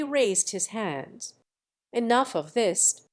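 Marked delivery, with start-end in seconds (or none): none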